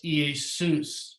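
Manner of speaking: Iesus with the final syllable SUS stressed, said slowly; slow, careful Iesus, weight on -SUS; stress on the last syllable. Shown as a demonstration. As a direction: land on the end of Iesus. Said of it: "stress the accented syllable".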